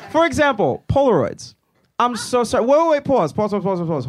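high, laughing rush to stop; laughing alarm at the crowd; laughing panic. Real, not acted. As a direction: backpedal in giggling alarm. Laughing panic over backlash.

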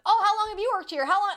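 high, loud eager questions; rapid-fire questioning. Retold or imitated. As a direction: imitate someone firing off chatty questions. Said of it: "rapid fire asking him questions".

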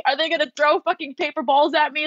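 high, put-on anxious self; squeaky imitation of her own nerves; playful high-pitched panic; mock nervous inner voice.

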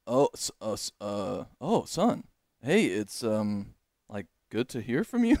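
stammered "oh" and "son", "you" lifted like a question; halting greeting, "good to hear from you" ending unsure on a rise; questioning, taken aback. Retold or imitated. Surprised dad hears from his son, stammering, "you" as a question. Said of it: "like, question mark".

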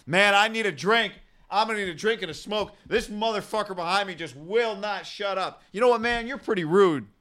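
loud grumbling meant to be overheard; fed-up snapping. Retold or imitated. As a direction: imitate an exasperated passenger, pitched high. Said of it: "absolutely snaps. And he starts talking loudly".

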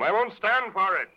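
angry outburst. Acted. Giant threatens the detective.

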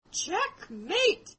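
high, loud triumphant call; acted scream. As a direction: cry it out like a knight making a capture. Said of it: "and he screams".

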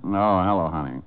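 drowsy, tender greeting while half asleep; sleepy tender. Acted. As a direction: murmur it sweetly, still dreaming. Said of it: "what was that hello, honey, for".

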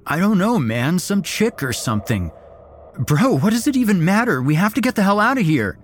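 high, loud frantic pleading; desperate to get out now; panicked. Acted. Panicked friend wants to flee.

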